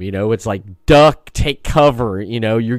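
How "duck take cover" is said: slow, raised mock battle call; half-acted urgent order under fire; mock shout. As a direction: call out to take cover. Soldiers under fire, imagined shout.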